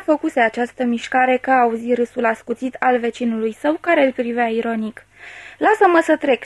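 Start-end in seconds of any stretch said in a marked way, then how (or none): 5.6-6.4 a higher, urgent cry to get out; mock shout. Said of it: "strigă el". (strigăt jucat, pe ton mai înalt)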